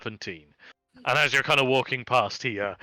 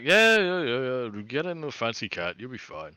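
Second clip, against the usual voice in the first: nonchalant. Acted. Hobgoblin brushing off the player, nonchalant. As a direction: brush them off, bored. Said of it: "just nonchalantly is like".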